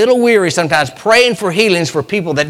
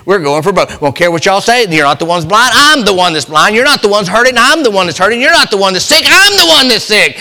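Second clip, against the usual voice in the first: blind men crying out; 3 semitones higher, 3 dB louder than usual. Retold or imitated. Blind men demanding to be heard, building louder. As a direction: plead louder and louder. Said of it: "they decided".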